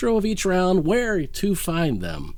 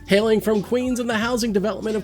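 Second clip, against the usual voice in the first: polished show-intro read; announcer read; 3 semitones lower than usual. Acted. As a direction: present the matchup like a host. Reads the round intro.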